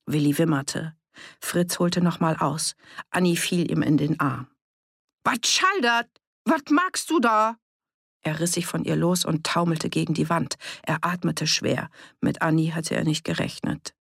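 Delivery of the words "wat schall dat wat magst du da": hoch und scharf empört, in Platt; empörter Ausruf. Acted. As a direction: fahr ihn entrüstet an, was das soll. Annie fällt Fritz in den Arm. (Annie geht empört dazwischen, als Fritz ausholt)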